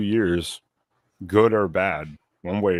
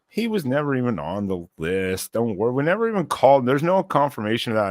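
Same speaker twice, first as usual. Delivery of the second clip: higher, insistent imitation of fans in denial; raised-pitch mock denial; mock defensive fans; 5 semitones higher than usual.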